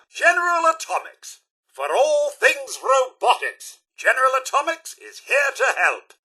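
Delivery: high, ringing announcer tagline; showy commercial sign-off; advertising slogan. Acted. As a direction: proclaim the company slogan proudly.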